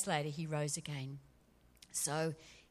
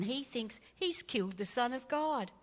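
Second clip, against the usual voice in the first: usual speaking voice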